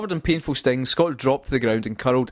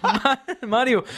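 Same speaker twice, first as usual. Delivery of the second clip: Bowser's voice; 12 semitones higher, slower than usual. Acted. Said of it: "said Bowser".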